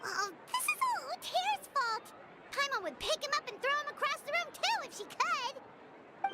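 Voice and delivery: a petulant outburst blaming Uter; indignant rant. Acted. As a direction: vent at the culprit. Paimon blames Uter furiously.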